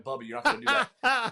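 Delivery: retold protest.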